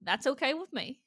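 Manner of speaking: mock Texas twang; Texas accent. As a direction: play the unbothered Texan. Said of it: "hate on my accent".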